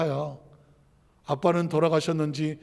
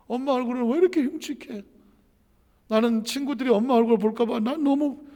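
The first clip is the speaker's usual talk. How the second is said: resentful crying; 4 semitones higher than usual. Retold or imitated. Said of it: "원망하면서 펑펑 웁니다".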